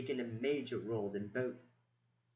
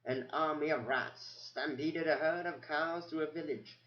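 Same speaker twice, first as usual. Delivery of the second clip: put-on old mouse reading records. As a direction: murmur through old notes, pausing. Methuselah recites from memory.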